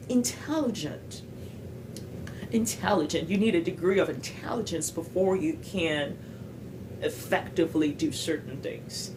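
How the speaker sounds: measured American English, stressed TEL in intelligent; American accent. Shown as a demonstration. Example of how natives say it, American accent. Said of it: "je prononçais pas comme eux. Par exemple, les mots comme".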